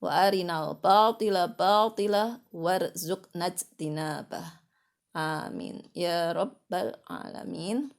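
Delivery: slow, measured chanted supplication; steady devotional chant, easing down at the close; prayer recitation. Real, not acted. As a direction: intone the prayer with lengthened vowels.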